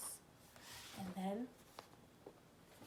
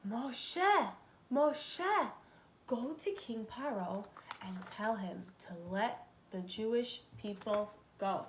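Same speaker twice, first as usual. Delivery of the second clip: voice from the bush; 4 dB louder than usual. Acted. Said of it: "Hashem's voice came from the burning bush".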